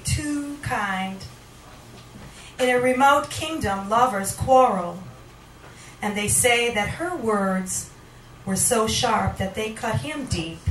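poetry reading. Acted. Poet reading to the audience, measured spoken word. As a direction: let each image land, unhurried. Poet reads own poem aloud.

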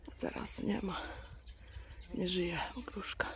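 hushed, mournful whisper; sad whisper. Real, not acted. Owner mourns her dead pear tree, sad whisper. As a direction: grieve softly for the tree.

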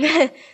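short panting laugh; breathless laugh. Real, not acted. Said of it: "I'm out of breath".

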